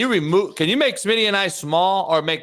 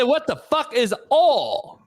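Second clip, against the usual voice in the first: baffled; 8 semitones higher, slower than usual. Retold or imitated. Retold baffled reply, echoing the word.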